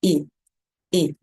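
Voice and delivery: I as a lax sound, nearly an E; short, slack I with relaxed muscles; a loose I between I and E. Shown as a demonstration. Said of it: "um I um pouco mais fechado".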